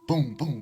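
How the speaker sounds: imitated gunshots. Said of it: "like the sounds of shots going off".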